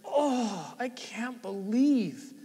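a touch of anguished disbelief; lightly acted self-reproach, drawing out the words; acted inward remorse. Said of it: "it's the inward".

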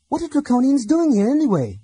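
high, loud, urgent question; agitated Laurana. A narrator's reading. Laurana presses Theros about the Draconians, high and urgent. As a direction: demand an answer, upset.

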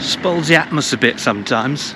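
a light northern English accent, lightly put on. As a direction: say it like a northern bloke, tongue in cheek. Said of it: "required a northern accent".

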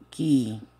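syllables split by long pauses; slow pronunciation demo. Shown as a demonstration. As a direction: sound it out for students, stretching the last word. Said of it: "esta pronunciación es así". (pronunciación lenta, separando sílabas)

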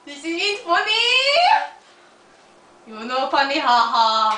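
put-on Russian accent. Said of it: "My accent keeps changing".

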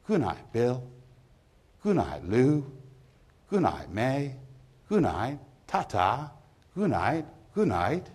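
high, lilting goodbyes; pub farewells. Acted. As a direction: call goodnight to friends in a rising lilt. Drinkers' farewells as the pub closes.

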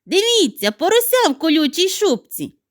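high, loud excited call; shout. Acted. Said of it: "крикнула сніжинка подругам".

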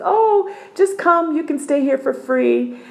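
friend's voice. Retold or imitated. Friend's invitation, retold.

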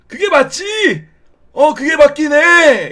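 put-on high, slow old man voice. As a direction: agree like a doddering grandpa. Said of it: "이런 느낌의 톤으로". (느릿한 할아버지 목소리)

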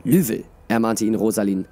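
expressive audiobook reading with voiced dialogue; measured storyteller, lively in the dialogue; story narration. A narrator's reading. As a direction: read it like a fantasy tale. Reads a story aloud.

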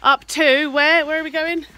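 hammed-up panting question on the hill; mock breathless cry. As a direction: groan it out like the climb is endless. Mock gasping up steep hill.

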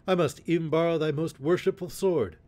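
high-pitched, mock-courteous call; crying out. A narrator's reading. Little John taking the sheriff's sword, crying out. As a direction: sing out the polite taunt up high. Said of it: "cried he".

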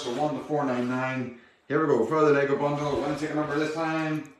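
upbeat raffle draw call; raffle caller. Acted. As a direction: announce the draw to the stream.

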